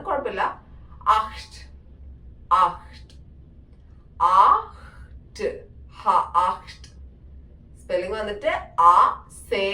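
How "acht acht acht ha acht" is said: "ആഹ്റ്റ്" as German acht, throaty kh before the t; "ആഹ്റ്റ്" repeated with the breathy ch sounded out; careful German pronunciation. Shown as a demonstration. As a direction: break "ആഹ്റ്റ്" down for learners, aakh-t. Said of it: "എയ്റ്റിന്റെ pronunciation പെട്ടെന്ന് നമുക്ക് കിട്ടാൻ ഇച്ചിരി ബുദ്ധിമുട്ടാണ്".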